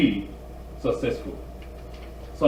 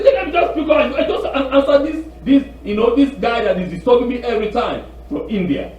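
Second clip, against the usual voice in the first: weary giving in; 5 semitones higher than usual. Retold or imitated. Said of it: "you get tired".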